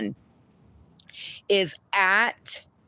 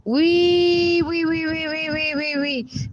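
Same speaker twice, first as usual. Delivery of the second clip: high, fading squeals; high wees dying away; squealing wee; 7 semitones higher than usual. Retold or imitated. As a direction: squeal then trail off. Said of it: "Kyle said".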